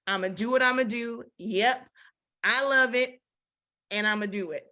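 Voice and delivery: brash, careless sass; ugly attitude. Retold or imitated. Preacher voicing a defiant woman, brash and careless. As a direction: toss it off like you don't care. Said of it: "The attitude is ugly".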